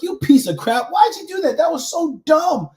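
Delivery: harsh, high mock self-scolding; self-berating. Coach acting out his inner critic, berating himself. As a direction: snap at yourself like your own bully. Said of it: "I beat myself to a pulp".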